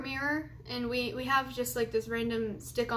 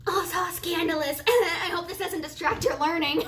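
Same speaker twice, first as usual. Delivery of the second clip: laughing; 6 semitones higher than usual. Real, not acted. Joking about being scandalous.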